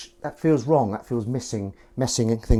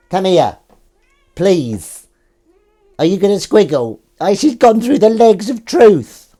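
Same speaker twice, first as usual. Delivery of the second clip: much higher and louder, slow coo; cat voice; 10 semitones higher, 11 dB louder than usual. Real, not acted. Calling the cat through the legs, high slow cooing. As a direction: croon at the cat in the demonic voice. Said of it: "he hates this voice".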